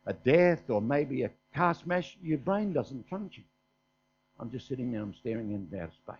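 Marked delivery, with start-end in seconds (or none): 4.4-6.2 low, soft, stunned murmur; dazed with shock. Retold or imitated. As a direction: drop right down as if numb. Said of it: "I'm in shock".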